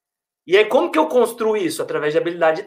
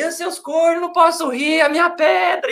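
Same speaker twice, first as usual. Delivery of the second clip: laughing cursing patient; 10 semitones higher than usual. Retold or imitated. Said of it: "Aí ele voltou a rir".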